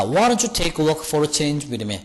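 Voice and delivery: very slow English example; teacher reading the example sentence very slowly. Shown as a demonstration. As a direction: read the sentence slowly for students. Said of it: "자".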